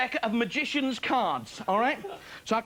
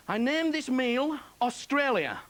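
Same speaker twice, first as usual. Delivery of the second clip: Captain Cook impression; 3 semitones higher, much slower than usual. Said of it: "That's Captain Cook".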